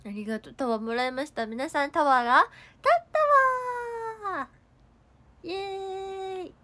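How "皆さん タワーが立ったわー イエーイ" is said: louder cheer with a long high stretched yay; excited cheer. Real, not acted. To viewers after a big gift, a long excited cheer.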